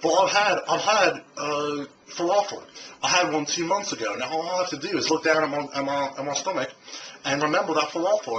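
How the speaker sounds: a loose take on an Aussie twang; Australian accent. Retold or imitated. Vlogger quoting Joe Cross at a falafel stand, with a mild Australian accent. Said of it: "with his Australian accent".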